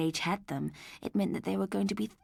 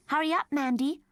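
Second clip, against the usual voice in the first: higher, louder call; 9 semitones higher, 5 dB louder than usual. A narrator's reading. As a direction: call her daughter from the next room. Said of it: "called her mother".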